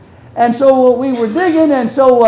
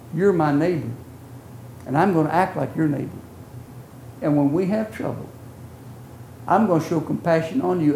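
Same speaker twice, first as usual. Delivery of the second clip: gentle counsel; 4 dB quieter than usual. Retold or imitated. Friend quietly teaching the preacher compassion, soft and tender. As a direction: speak it like a kind neighbor.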